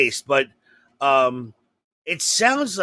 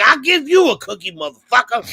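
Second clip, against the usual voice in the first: mock angry mom; 3 semitones higher than usual. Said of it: "She's like".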